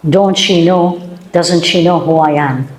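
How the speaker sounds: mock the wounded ego lightly; indignant ego. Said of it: "Our ego".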